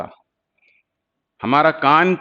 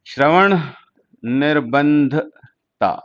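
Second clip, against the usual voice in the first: slow, word by word; much slower than usual. Shown as a demonstration. Teacher slowly breaking the Hindi term into parts for students. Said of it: "repeated word by word".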